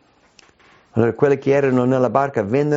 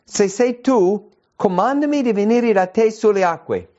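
Peter's plea; 10 semitones higher than usual. Acted.

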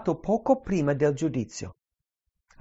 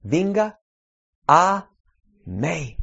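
Venga and a rising loud, pause between each word; emphatic call; 2 semitones higher, 5 dB louder, much slower than usual. Acted. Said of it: "Cosa dice?".

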